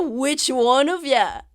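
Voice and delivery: slow, high, loud jeer; heckler yelling. Acted. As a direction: call it out mockingly from the crowd. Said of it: "you hear someone say".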